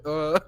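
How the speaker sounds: zombie groan. Retold or imitated. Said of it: "like, Sean's mum".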